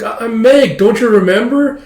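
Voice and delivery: squeaky, pushy schoolgirl; high girly voice. Retold or imitated. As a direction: pitch way up and insist. Voicing a girl character.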